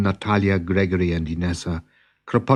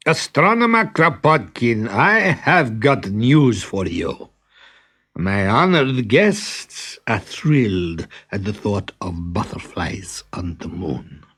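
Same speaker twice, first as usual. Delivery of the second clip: a haughty prince demanding the impossible; spoiled prince issuing an order; imperious prince. Acted. Prince brings news.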